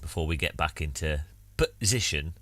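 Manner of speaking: put-on Northern English accent, chatty; Northern English streamer voice over a cuppa. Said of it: "Don't know what accent it is".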